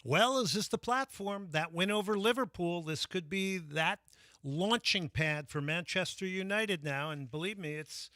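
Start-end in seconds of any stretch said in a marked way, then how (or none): 0.0-7.1 excited. Real, not acted. Excited sports pitch.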